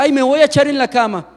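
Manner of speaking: lightly mocking a dainty little flop. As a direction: toss it off like someone too delicate to really drop. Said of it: "Nadie se echa con delicadeza". (remedo suave de alguien delicado al echarse)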